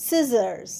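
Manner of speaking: scissors starting on a plain S, no K; silent C. Shown as a demonstration. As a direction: model scissors as "sizars". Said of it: "সি উচ্চারণ হবে না".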